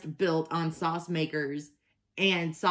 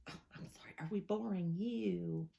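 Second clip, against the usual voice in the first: mock sarcastic aside; 10 dB quieter than usual. Real, not acted. Teasing the dog, who seems bored.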